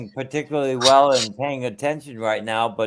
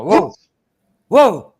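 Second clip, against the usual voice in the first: excited; 8 semitones higher, 8 dB louder than usual. Real, not acted. Reacting to seeing Bruno.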